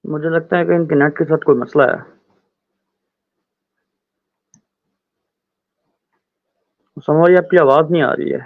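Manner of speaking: heavy echo on the voice. Real, not acted. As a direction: voice bouncing back with echo. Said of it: "आपकी तरफ से बहुत ज़्यादा इको आ रही है".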